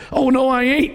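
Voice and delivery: mock defiant woman. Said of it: "She's cussing this cop".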